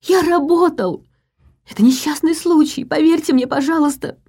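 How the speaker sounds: high panicked cries; a hanging man crying for belief; terrified pleading. A narrator's reading. Screaming in terror.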